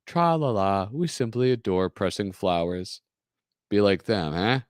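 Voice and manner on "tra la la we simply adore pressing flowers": put-on prissy sing-song boys. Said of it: "those lovely N sync boys".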